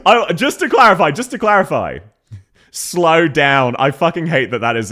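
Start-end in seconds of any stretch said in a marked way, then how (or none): 2.7-3.8 broad Aussie "Slow down"; Australian accent. Shown as a demonstration. Streamer hating that it's how we say it, Australian accent. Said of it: "in fact, how we say it".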